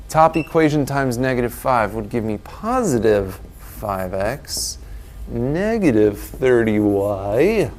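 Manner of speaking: lightly voiced announcer; a hint of a booming announcer. Shown as a demonstration. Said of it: "This is my announcer voice".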